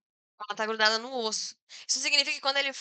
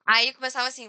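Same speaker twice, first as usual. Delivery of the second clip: normal talking voice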